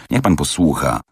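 a touch of gravity, measured and serious; grave. Acted. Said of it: "ozwał się Fix z powagą".

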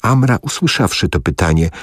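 usual speaking voice

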